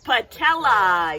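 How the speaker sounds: put-on slow, clear "Patella" for children to repeat; teacher modelling "Patella"; model word. Shown as a demonstration. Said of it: "Say that".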